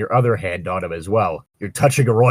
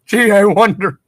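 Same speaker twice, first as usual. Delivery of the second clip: sarcastic; 11 semitones higher, 7 dB louder than usual. Acted. Sarcastic quip in role-play.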